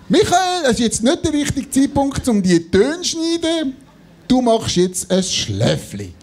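high voice talking himself into it; self-persuading voice. Retold or imitated. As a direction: coax yourself into a nap.

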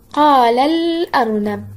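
قال الأرنب slowly, linked as "qaalal-arnab" with a held l; sounded moon lam. Shown as a demonstration. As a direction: draw out the l joining قال to الأرنب. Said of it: "هنا جاءت الكلمة التي تشتمل على لام قمرية".

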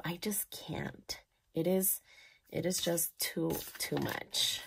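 real emotion, barely voicing it; too moved to speak aloud; choked-up whisper. Real, not acted. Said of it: "because I will get emotional".

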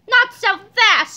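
high, loud, drawn-out challenge; villain's scream. A narrator's reading. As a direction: shout to halt the escaping heroes. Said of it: "screamed Doctor Diaper".

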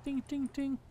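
high, soft mock dinging; imitated bell dings. Player faking a bell at the motel deal, high soft dings. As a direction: voice three little dings, high and quiet.

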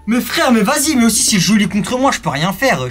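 normal talking voice

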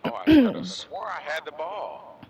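high, loud frustrated cry; frustrated outburst. Real, not acted. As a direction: blurt it out in disbelief. Frustrated at lost ball.

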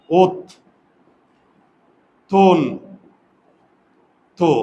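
ওত, তন, তো with long gaps between; syllable breakdown. Shown as a demonstration. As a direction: sound out ওত... তন... তো one beat at a time. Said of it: "আমি এটার উচ্চারণটা সরাসরি লিখে দিই".

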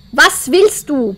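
slow, deliberate questions; slow ghost questioning. Acted. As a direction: ask each word slowly into the dark.

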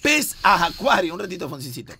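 quiz question read-out. Acted. Lee pregunta del concurso, deletreando opciones.

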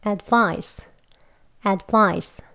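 "advice" with the first vowel as a wide, open "에". Shown as a demonstration. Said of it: "에 하는 소리가 나게".

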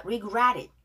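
"Regret it" run together as one word; linked pronunciation. Shown as a demonstration. Teacher showing learners linking in "Regret it". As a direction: link the t of "Regret" into "it". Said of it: "자, 여기 연결돼요".

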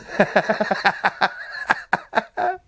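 breathy scoffing laugh, no voice; airy laugh of disbelief at the headline; derisive laugh. Real, not acted.

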